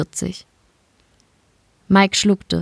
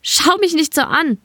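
shout; 10 semitones higher than usual. A narrator's reading. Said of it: "sie schrie".

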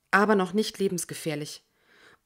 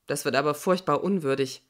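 resigned; 4 semitones lower than usual. Acted. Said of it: "Jorge klingt resigniert".

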